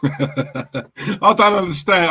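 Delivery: mocking echo through laughter; laughing mimicry. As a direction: laugh while slowly imitating him. Mocking repeat of played clip.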